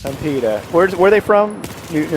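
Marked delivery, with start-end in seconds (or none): 0.0-0.6 hint of a Peter Griffin impression. Caster retrying a Peter Griffin line for co-caster, half-hearted impression. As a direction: lightly attempt a New England cartoon dad. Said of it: "did that sound Peter Griffin-y at all".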